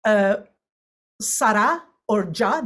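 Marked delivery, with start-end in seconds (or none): 1.2-2.7 "sarà" and "già" stressed on the last syllable; final-syllable stress. Shown as a demonstration. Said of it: "words that end on a stressed syllable".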